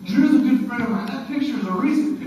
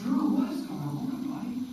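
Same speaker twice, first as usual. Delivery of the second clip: soft concern; 7 dB quieter than usual. Retold or imitated. Gently comforting a crying teen.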